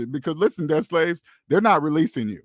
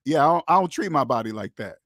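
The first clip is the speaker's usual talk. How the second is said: calm self-assured refusal. Shown as a demonstration. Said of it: "make sure you say it like that".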